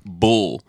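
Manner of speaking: put-on BULL as Philly's word for boy; Philly pronunciation. Shown as a demonstration. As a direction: say BULL where boy is meant, Philly-style. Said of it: "it sounds like bull".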